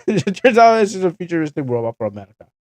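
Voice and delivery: gleeful repeat of the twist; amused punchline. Real, not acted. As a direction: land the joke with a grin. Repeated punchline after laughing.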